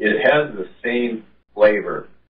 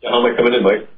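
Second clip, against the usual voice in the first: thin speakerphone voice, no bass; 3 semitones higher, 4 dB louder, faster than usual. Real, not acted. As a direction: caller on a tinny speakerphone. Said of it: "you sound like you're on a speakerphone".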